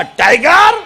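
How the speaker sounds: Tiger pitched high, rising at the end; rising prompt. Real, not acted. Speaker cues children to finish film title, rising prompt on टायगर.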